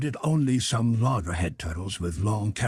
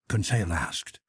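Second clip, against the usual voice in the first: usual speaking voice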